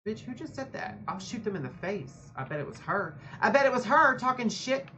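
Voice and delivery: mock-indignant gamer trash talk; playful shit-talking. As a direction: clap back at the game characters. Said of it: "I start shit-talking when I'm fighting".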